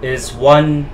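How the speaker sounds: measured, dramatic diary narration; diary read-aloud. Acted. Player reading George Walker's found diary to viewers, dramatic read-aloud.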